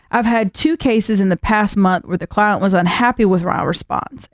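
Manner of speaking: put-on reading the letter in a thick Southern accent. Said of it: "That's a really thick Southern accent you're doing with this".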